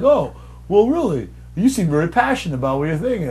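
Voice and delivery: high, nerdy mock employee. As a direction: squeak like a polite nerd.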